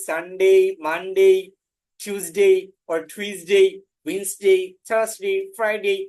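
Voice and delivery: the weekday names said slowly the English way; weekday names in clear English; careful English names. Shown as a demonstration. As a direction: read out each day, slow and careful. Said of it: "এরকম ভাবে পড়বো".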